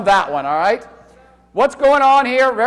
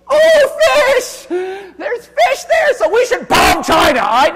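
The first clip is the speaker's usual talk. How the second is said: high, loud, hammed-up cry about fish; sarcastic over-the-top shout about bombing over fish; mock outrage; 10 semitones higher, 5 dB louder, slower than usual. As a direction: play a ridiculous warmonger.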